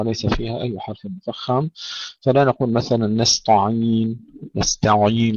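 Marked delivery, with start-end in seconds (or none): 3.1-4.2 slow نستعين with a thickened, emphatic t; wrongly heavy ta. Shown as a demonstration. Teacher warning students, demonstrating heavy ta in نستعين. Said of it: "لا نفخم لا التاء ولا العين". 4.6-5.3 نستعين with thick, backed ayn; wrongly heavy ayn. Shown as a demonstration. Teacher warning students, demonstrating heavy ayn in نستعين. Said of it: "لا نفخم لا التاء ولا العين".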